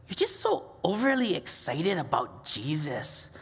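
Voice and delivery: hushed mocking kids; whispered taunt. Camp kids whispering a taunt, hushed. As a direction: breathe the taunt low. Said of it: "they start going".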